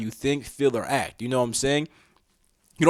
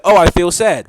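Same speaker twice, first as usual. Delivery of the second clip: loud, matter-of-fact noting of a feeling; accepting; 4 semitones higher, 9 dB louder than usual. Acted. Speaker models accepting sadness to listeners, matter-of-fact. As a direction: state it firmly, without panic. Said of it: "You just be like".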